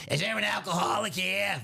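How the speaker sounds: hammed-up barroom shout; mock shouted question. Customer prank line, called out in a mock shout. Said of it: "he likes to pull the old".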